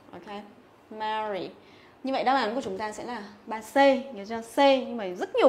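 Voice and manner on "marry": "Marry" with a wide æ, softer; flat E sound. Shown as a demonstration. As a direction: quietly repeat "Marry" with an open vowel. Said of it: "phải đọc thành âm E bẹt".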